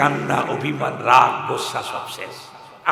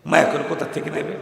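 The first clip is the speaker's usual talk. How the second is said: ordinary talk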